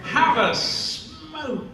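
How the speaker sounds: high, slow languid actor voice; a stoned star welcoming a guest; lazy O'Toole drawl. Retold or imitated. O'Toole inviting him to smoke, languid and high.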